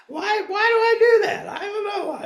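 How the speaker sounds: high, loud laughing question. Real, not acted. Preacher laughing at her own habit, high and loud. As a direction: laugh through the words.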